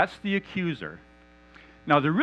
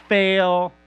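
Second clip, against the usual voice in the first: a sudden loud, higher "Fail"; mock verdict shout; 6 semitones higher, 10 dB louder than usual. Satan passing judgment on the believer, barked loud. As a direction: slam the word down like a judge.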